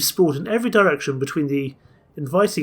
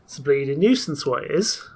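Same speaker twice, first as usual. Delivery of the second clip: grumbling in a put-on Yorkshire accent; a grumpy Yorkshire artificer, lightly voiced; Yorkshire accent, grumbled; thick Yorkshire accent. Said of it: "grumbled in a thick Yorkshire accent".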